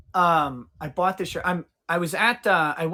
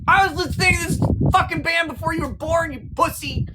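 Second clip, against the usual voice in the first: higher, fast, louder indignant tirade; mock furious rant; 11 semitones higher, 3 dB louder, faster than usual. Streamer rants at the young clerk who called him sir, fast and high. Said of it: "it pissed me off so much".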